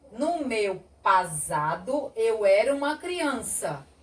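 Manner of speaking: "pasado" with a voiced z in the sentence; exemplo com Z. Shown as a demonstration. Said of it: "Eu digo assim". ("pasado" com som de Z)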